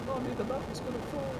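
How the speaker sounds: put-on high little child's voice. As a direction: play a scared little kid. Child character in game dialogue.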